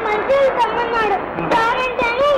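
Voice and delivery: whining through tears; tearful complaint. Acted. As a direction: draw out the words in a crying child's wail. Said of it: "ఎందుకమ్మా ఏడుస్తున్నావు". (ఏడుస్తూ ఫిర్యాదు)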